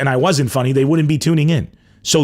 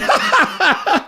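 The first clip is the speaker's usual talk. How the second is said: high-pitched laugh. Retold or imitated. Laughing back at the person who mocked him.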